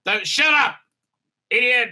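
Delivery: high, curt mock scolding; snippy. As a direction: snap at him like a fed-up boss. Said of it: "she gets snippy with him".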